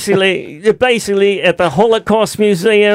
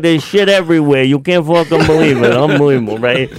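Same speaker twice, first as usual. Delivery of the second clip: light New York street voice; New York accent; 4 semitones lower than usual. Pretend. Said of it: "my best New York accent".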